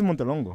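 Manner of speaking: Montelongo as MON-te-LON-go, stress on LON; name said right. Shown as a demonstration. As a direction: Montelongo spoken carefully, Spanish-style. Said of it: "how do you say Alex's last name?".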